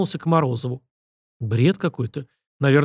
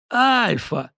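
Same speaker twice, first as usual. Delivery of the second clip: teeth-chattering corpse; 9 semitones higher than usual. A narrator's reading. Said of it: "лязгая зубами".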